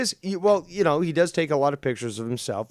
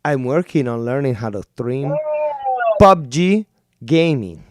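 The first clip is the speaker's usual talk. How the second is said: put-on Latino accent; 7 dB louder than usual. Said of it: "let me do my Latino accent".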